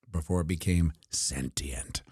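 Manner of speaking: a mock-ominous whispered aside. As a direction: drop to a conspiratorial whisper. Spooky aside about sentient internet.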